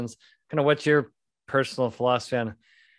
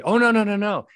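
much higher, louder mock teen refusal; son's quick refusal; 7 semitones higher, 6 dB louder than usual. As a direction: bat the offer away like an embarrassed teen. Son refusing dad's old cologne.

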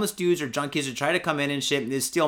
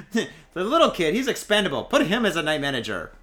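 mock management voice; 4 dB louder than usual. Mimics whoever made him manager.

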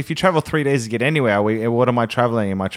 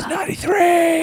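unvoiced whisper of "ninety-three". Whispering the runtime to co-host, secretive whisper. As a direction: hush it like a secret.

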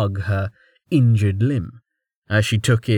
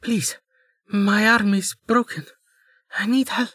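put-on high, pleading voice of a hurt girl; faked pleading; 11 semitones higher than usual. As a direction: beg for help, playing up the pain. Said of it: "She took a shuddering breath".

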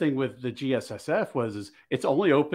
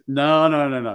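lightly acted, louder string of refusals; retold emphatic correction; 6 dB louder than usual. Armorer correcting a shooter's cleaning habit, mildly insistent retelling. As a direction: imitate someone firmly overruling a customer.

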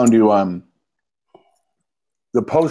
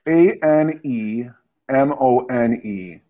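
spelling it out; much slower than usual. Real, not acted. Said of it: "I have to look at the word".

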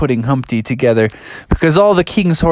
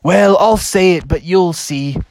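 slow, drawn-out hesitant voice; reluctant big egg; 5 semitones higher, slower than usual. Acted. Egg pupil unwilling to recite, slow hesitant voice. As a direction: drag the words out with reluctance. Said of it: "And he's like".

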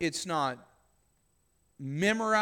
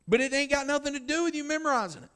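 emphatic preaching; 8 semitones higher, 5 dB louder, much faster than usual. Real, not acted.

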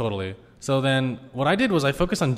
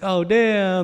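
surprised "damn"; 8 semitones higher, 4 dB louder than usual. Retold or imitated. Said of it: "It's like".

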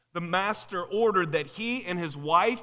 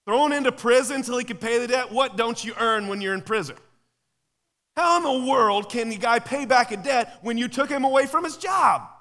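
louder and higher, outraged disbelief; incredulous shout; 4 semitones higher, 5 dB louder than usual. Real, not acted. Preacher to congregation, loud incredulous outrage. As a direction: shout at the absurdity. Preacher mocking the servant's logic.

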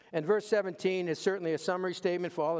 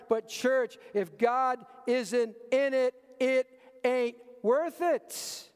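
"it ain't worth it" drawn out slowly, higher and louder; slow emphatic refrain; 7 semitones higher, 4 dB louder, slower than usual. Real, not acted. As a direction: land the refrain slowly, weighing each word. Sermon climax refrain.

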